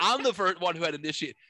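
hammed-up indignant girlfriend; Madea style. Girlfriend owning her boyfriend on the porch, Madea-style claim. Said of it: "like Madea style".

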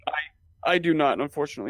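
talking while choking; coughing, throat caught mid-sentence; choking on a drink. Real, not acted. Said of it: "I'm choking".

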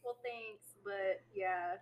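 halfway thank-you, trailing away; half-hearted thanks. Real, not acted. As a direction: accept the compliment without buying it. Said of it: "That was a bullshit thanks".

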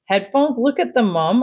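a touch of anger, pushing back; mildly angry. A narrator's reading. Child arguing with mom over headphones, mildly angry. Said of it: "I said angrily".

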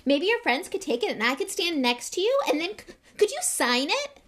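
put-on high, loud, imploring boy; Colin Creevey. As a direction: plead eagerly, rising to a nervous request. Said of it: "He looked imploringly at Harry".

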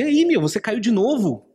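mocking enemy voice. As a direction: sneer at the sinner who keeps falling. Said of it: "eu ouvi essa voz no meu coração".

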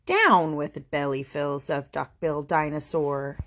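mild hooted chant, unshouted; low-key counter-chant. Acted. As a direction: hoot it steadily in an understated voice. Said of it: "And he hooted".

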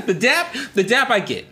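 high, laughing delivery. Real, not acted. Laughing at high five story.

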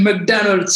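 McDonald's said Mac-DAN-alt, American vowels; McDonald's with an American accent, stress on DAN. Shown as a demonstration. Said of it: "je savais pas qu'il fallait dire".

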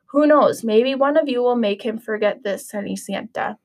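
put-on lively read-aloud storytelling for children; story narration. A narrator's reading. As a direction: read it like a picture book to little kids. Teacher reads Cinderella story aloud.

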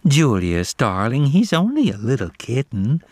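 lightly sweetened coo; sugary, mock-soothing to her cousin. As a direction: Jasmine soothing Julius with a faintly syrupy coo. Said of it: "cooed Jasmine in her milk-in-the-morning voice".

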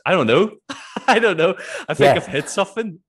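high, loud, laughing bewilderment; flustered self-quote. Retold or imitated. Answering why they are crying, high and flustered with laughter. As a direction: squeal it helplessly through a laugh.

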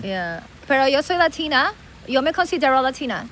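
put-on Miami-born Latina with American accent; American accent in Spanish. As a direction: claim Latin roots in gringa-tinged Spanish. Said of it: "el acento ingl-, eh, americano de aquí". (acento gringo de Miami)

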